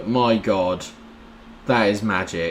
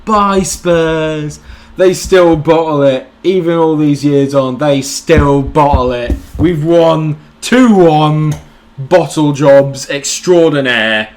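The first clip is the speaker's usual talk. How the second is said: gloating taunt; 4 semitones higher, 6 dB louder, slower than usual. Real, not acted. Taunting beaten rival.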